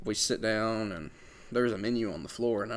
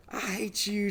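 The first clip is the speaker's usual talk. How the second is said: mock sulky bride; 10 semitones higher, 4 dB quieter, slower than usual. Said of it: "And she was like".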